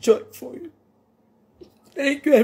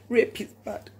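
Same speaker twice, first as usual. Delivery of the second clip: softer, a low final verdict; quiet; 3 semitones lower, 7 dB quieter than usual. Real, not acted. Closing her point to viewers, quietly firm. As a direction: drop the voice and let it settle.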